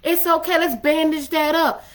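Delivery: lightly voiced motherly reassurance; mama soothing. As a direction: comfort them like a mama tending a scrape. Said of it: "he do that mama, you know, thing".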